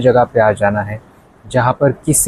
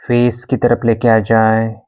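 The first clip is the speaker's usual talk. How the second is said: even, unhurried yoga nidra guidance; guided meditation. Acted. Yoga teacher guiding a class in shavasana, calm meditation voice. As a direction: guide them into stillness, with long pauses between instructions.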